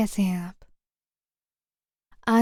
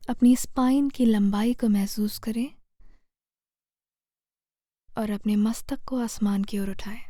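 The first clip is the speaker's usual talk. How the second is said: guided meditation. Real, not acted. Meditation guide leading listeners through posture and breath to heal fear, calm guided meditation. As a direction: guide them gently, phrase by phrase, leaving space to breathe.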